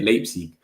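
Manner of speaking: "Leipzig" as LAPE-sig; Leipzig pronounced their way. Shown as a demonstration. Streamer confirming how they say it, "Leipzig" as LAPE-sig. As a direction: say "Leipzig" with a long ay, falling at the end. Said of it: "that's how they say it".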